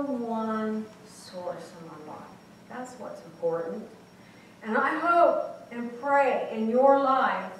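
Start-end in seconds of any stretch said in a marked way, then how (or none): 4.6-7.5 earnest blessing. Real, not acted. Closing blessing to the congregation.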